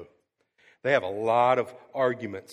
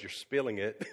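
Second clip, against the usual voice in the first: calm; 3 dB quieter than usual. Retold or imitated. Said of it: "just very calmly goes".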